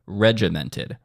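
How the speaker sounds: "regimented" with the accent up front on REG; stress on first syllable. Shown as a demonstration. Teacher shows where the accent is, REG stressed in "regimented". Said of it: "Notice where the accent is on that word".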